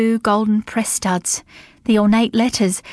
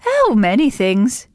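slow, offhand and casual; 3 semitones higher, 3 dB louder, slower than usual. Acted. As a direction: shrug it off lightly. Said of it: "said Dorothy casually".

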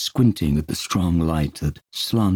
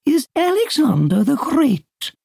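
lowered voice; 5 dB louder than usual. Acted. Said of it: "Peter lowered her voice".

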